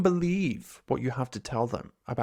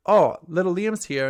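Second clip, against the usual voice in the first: cheerful greeting; 3 semitones higher, 6 dB louder than usual. Pretend. Cheerful greeting of past self.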